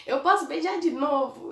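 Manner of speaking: imitating a playful, affectionate ask to a father; vozinha risonha. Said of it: "eu falava rindo, assim, na vozinha".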